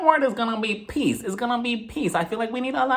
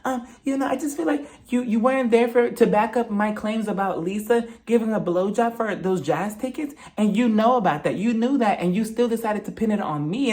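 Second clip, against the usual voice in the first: mock whiny Whitney; 3 semitones higher than usual. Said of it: "she was like".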